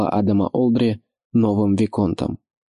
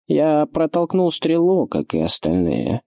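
irritated slow retort, higher start; 7 semitones higher, slower than usual. Acted. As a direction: let the irritation show. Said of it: "в его голосе послышалось раздражение".

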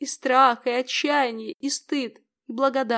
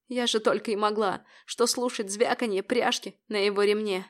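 plain reading voice

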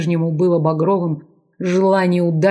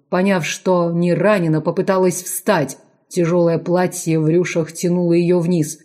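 ordinary delivery

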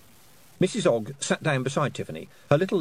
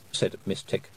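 plain reading voice

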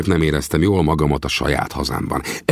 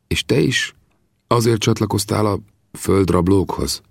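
halting, pained; 5 semitones higher than usual. Acted. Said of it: "kérdezte szaggatottan".

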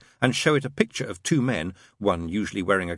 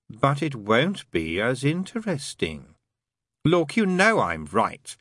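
higher, slow, emphatic character dialogue; arguing character voices; 5 semitones higher than usual. Acted. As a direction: argue in character, stretching the words.

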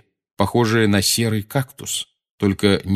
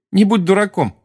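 laughing; 10 semitones higher, 5 dB louder than usual. A narrator's reading. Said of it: "засмеялась Джинни".

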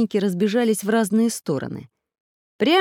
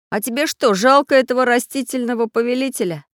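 higher-pitched, mildly astonished query; surprised question; 6 semitones higher, 4 dB louder than usual. A narrator's reading. Samodelkin asks boy if he pities villain, surprised. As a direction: ask it in disbelief, voice lifted. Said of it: "спросил удивлённо Самоделкин".

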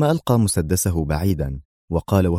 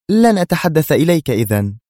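higher, louder sulky retort; angry; 9 semitones higher, 5 dB louder than usual. Acted. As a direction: snap back in a huff. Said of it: "في غضب". (برد غاضب عالٍ)

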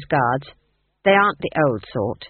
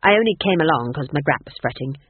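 sharp, curt, getting faster; snapped; 3 semitones lower, 4 dB louder than usual. Acted. Granny snapping at Nanny Ogg, curt and irritated. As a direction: bite off the words, irritated. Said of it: "snapped Granny".

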